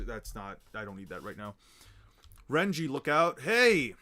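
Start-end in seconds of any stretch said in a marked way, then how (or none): 2.5-3.9 acted call-out rising to a loud Hey; lively comic-book shout; shouted warning. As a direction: call out a warning, then yell back. Acted warning cry in manga.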